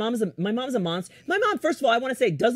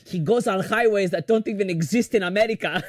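mildly exasperated mother impression; upset mom. Daughter imitating mom fed up with dad's directions, mildly upset. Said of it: "my mom gets really upset at him".

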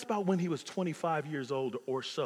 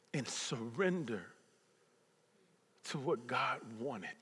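quiet, lowered confession; soft surrender; 4 semitones lower, 6 dB quieter than usual. Retold or imitated. Pastor retelling April's words to Pastor, quiet. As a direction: hand it all over softly.

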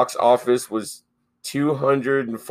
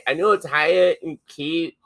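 Kiwi accent; 3 semitones higher than usual. Shown as a demonstration.

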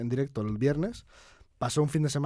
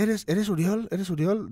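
lightly voiced boy caller, pitched higher; imitating young boy; 5 semitones higher, slower than usual. Boy phoning a stranger, lightly imitated higher child voice. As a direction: retell a kid's eager question in higher pitch. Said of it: "me contestó un chaval".

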